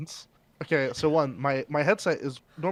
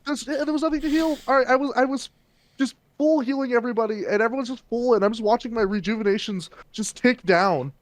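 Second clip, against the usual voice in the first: glitchy high-pitched mic; helium voice; 7 semitones higher than usual. Real, not acted. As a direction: voice pitched up by a loose wire. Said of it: "Did he get really high pitched there".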